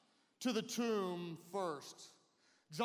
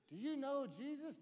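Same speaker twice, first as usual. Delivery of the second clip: lightly voiced little girl, higher pitch; a hint of a child's voice, higher; 4 semitones higher, 4 dB quieter than usual. Little girl questioning Peter, lightly childlike. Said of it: "Little girl comes up".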